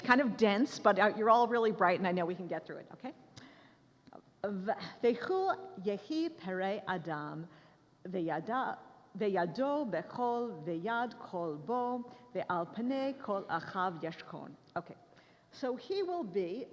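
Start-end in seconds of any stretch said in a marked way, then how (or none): 4.4-14.5 slow, deliberate Hebrew recitation; reading aloud in Hebrew. Shown as a demonstration. Lecturer reads a Hebrew verse to the class, slow recitation. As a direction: read the verse slowly, phrase by phrase. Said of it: "read this for you in Hebrew".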